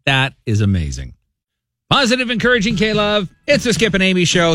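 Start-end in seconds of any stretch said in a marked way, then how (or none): 1.9-4.5 upbeat station ID, a little higher; radio announcer read. Acted. Host opening the morning show with an upbeat ID. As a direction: sell the station name brightly.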